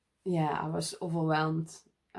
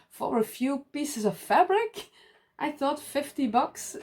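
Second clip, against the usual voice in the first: mock disbelief; 8 semitones higher than usual. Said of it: "he was blown away".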